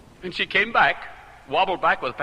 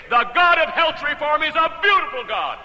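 louder and higher, delighted; joyful praise; 9 semitones higher, 4 dB louder than usual. Shown as a demonstration. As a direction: proclaim it like good news. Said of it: "It's one thing to say".

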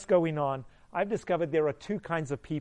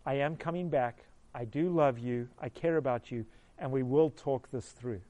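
reassuring; 3 semitones lower than usual. Retold or imitated. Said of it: "I learned to tell her".

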